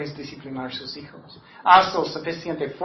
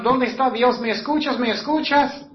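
higher mock pleading to God, a hint of tears; anguished plea; 6 semitones higher than usual. Preacher voices a desperate parent calling on God. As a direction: cry out to God, lightly acted. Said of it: "Estás llorando, estás pensando".

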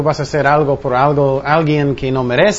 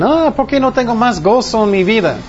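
higher-pitched imitated complaint; mock lament; 7 semitones higher, 3 dB louder than usual. Voicing people with no joy in their hearts, mock lament. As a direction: play someone lamenting, pitched up.

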